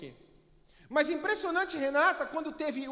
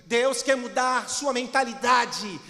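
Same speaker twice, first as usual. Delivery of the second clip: preaching; 5 dB louder than usual. Acted. Preaching at full force.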